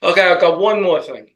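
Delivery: slips into his own New York accent on "I've got". Real, not acted. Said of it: "I couldn't even lose my New York accent".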